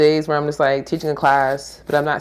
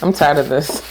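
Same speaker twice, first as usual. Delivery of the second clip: whiny grandchild; 4 semitones higher, 4 dB louder than usual. Pretend. Skit complaining to grandpa.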